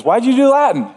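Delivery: high-pitched mock challenge; imitating a challenging colleague. Preacher imagines colleague questioning his slide, mock challenge. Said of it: "Trike's gonna listen to this and he goes".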